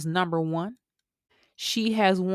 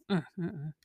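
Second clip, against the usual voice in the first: emotional humming; 7 dB quieter, faster than usual. Real, not acted. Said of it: "I'm getting emotional right now".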